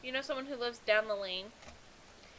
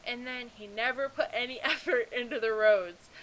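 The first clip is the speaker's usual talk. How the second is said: ranting with a laugh; 7 dB louder than usual. Real, not acted. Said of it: "So that's my mini rant".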